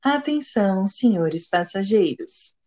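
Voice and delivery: slow airline PA announcement; over the intercom. Pretend. Mock flight announcement to open the show.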